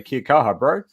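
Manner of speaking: light New Zealand accent, a touch hammed-up; Kiwi accent. Shown as a demonstration. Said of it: "that's my Kiwi accent".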